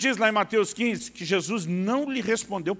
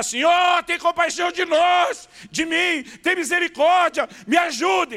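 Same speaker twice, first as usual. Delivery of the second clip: put-on high, loud, drawn-out outcry, shouted; 9 semitones higher, 5 dB louder than usual. Retelling how the woman starts shouting at Jesus: imitating a woman shouting. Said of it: "ela começa a gritar".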